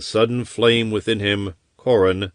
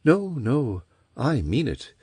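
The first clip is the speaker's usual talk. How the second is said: earnest; 6 semitones higher, 3 dB quieter than usual. Acted. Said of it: "said Chryseis earnestly".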